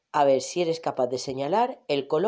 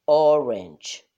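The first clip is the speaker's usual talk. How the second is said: teacher modelling; 7 dB louder than usual. Shown as a demonstration. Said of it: "Repite otra vez".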